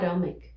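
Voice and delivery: "atomic" with the T weakened to a tap, like "aromic"; tapped T in "atomic"; wrongly flapped atomic. Shown as a demonstration. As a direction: demo the mistake, "atomic" with a flap T. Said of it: "não poderia falar atomic".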